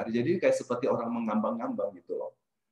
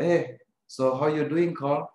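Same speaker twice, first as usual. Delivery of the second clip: forced casual; 3 semitones higher, slower than usual. Retold or imitated. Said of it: "saya pura-pura suara saya seperti tidak ada apa-apa".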